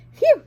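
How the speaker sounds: high, loud puff of relief; exaggerated relieved sigh; relieved phew sigh. A narrator's reading. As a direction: blow out a big relieved phew. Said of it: "sighed Jeffrey".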